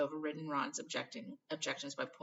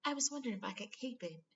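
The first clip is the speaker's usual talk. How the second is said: breathless; 8 semitones higher than usual. Acted. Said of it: "she said breathlessly".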